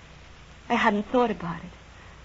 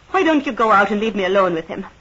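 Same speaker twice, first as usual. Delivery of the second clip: raised, cutting voice to a rival; louder, tell her to get out; resentful woman ordering her rival away from the bed; sharp demand; 6 dB louder than usual. Acted. Jealous quarrel at sickbed.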